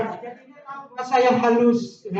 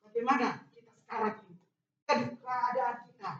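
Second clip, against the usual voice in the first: much softer, intimate aside; quiet; 3 semitones lower, 14 dB quieter than usual. Real, not acted. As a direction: drop your voice to draw them in. Preacher drops to quiet. (suara pelan dan lirih)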